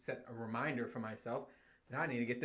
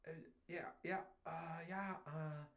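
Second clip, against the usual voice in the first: bored mumbling; 2 semitones higher, 11 dB quieter than usual. Retold or imitated. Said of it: "I'm like".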